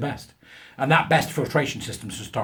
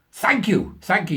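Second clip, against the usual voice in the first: put-on much higher, louder, slow German accent; mock German professor; 8 semitones higher, 5 dB louder, slower than usual. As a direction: ham up a self-important German scientist. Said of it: "of German extraction".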